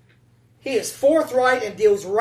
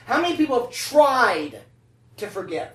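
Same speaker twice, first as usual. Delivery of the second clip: "tried" leaned on a little harder; stress on tried; 2 semitones higher than usual. Shown as a demonstration. Preacher asking the congregation, with stress on "tried". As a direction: lean into "tried". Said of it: "Emphasis on the word try".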